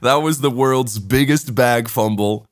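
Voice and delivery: slow, retold heartfelt apology; profuse apology. Going up to the Estonian guy to apologize, profusely sorry. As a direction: apologize slowly, laying it on for a retelling. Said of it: "to apologize profusely".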